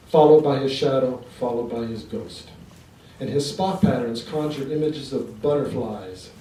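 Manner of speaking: deliberate poet's delivery to a live audience; poetry reading. Acted. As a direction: recite in measured lines with pauses between sections. Reads numbered poem aloud.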